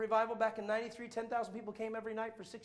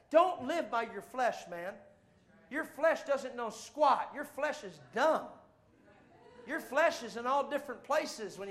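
slow emphatic; 4 dB louder, slower than usual. Acted. Preacher scolding the flesh.

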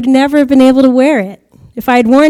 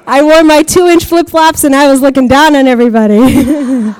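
laughing; 3 dB louder than usual. Real, not acted. Laughs while telling a joke.

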